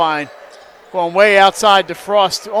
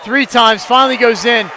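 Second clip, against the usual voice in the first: excited call; 3 semitones higher than usual. Real, not acted. Call of a made basket.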